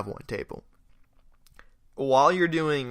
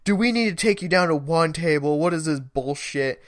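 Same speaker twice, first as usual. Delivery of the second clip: higher-pitched mock angry telling-off; retold yelling; 5 semitones higher, 3 dB louder than usual. Kitchen manager scolds a new server over a botched order, mock yelling. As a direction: imitate a manager yelling, only mildly raised. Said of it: "he just starts yelling at me".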